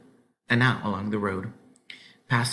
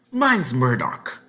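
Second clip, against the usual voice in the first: slow introduction; 3 semitones higher, 6 dB louder, much slower than usual. A narrator's reading. Farmer introduces himself.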